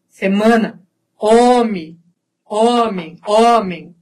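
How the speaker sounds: nasal vowels in "Semana" and "homem"; Portuguese nasalization. Shown as a demonstration. Teacher showing Portuguese habit, nasal vowels. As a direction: send "Semana" and "homem" through the nose. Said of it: "A gente fala pelo nariz".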